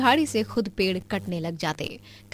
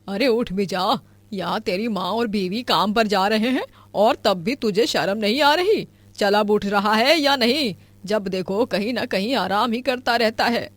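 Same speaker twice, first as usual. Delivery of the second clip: put-on raised, nagging old-mother voice; scolding mother. Mother nagging her son to get up, fed-up scolding. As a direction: nag him out of bed, fed up.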